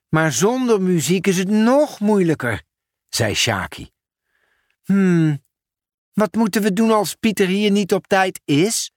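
put-on a child's worried complaint.

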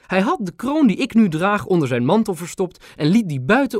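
high, regal grandmother; the queen confiding she's a grandma too. A narrator's reading. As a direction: speak as a touched old queen. Queen telling history.

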